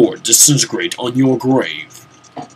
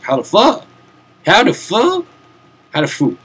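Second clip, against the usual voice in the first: higher, rising repeated baffled questions; mock baffled player; 8 semitones higher than usual. Mocking a stumped player, high baffled repeats. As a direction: play a stumped gamer asking over and over. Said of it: "You'd be like".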